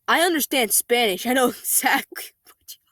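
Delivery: the dad's line, collapsing into a whispered giggle; can't finish the line for laughing; laughing through the quote. Retold or imitated. Quoting dad, teller breaks up laughing.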